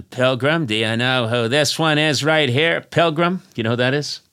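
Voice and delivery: mild hack western hero; understated John Wayne bit; lightly voiced John Wayne. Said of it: "John Wayne".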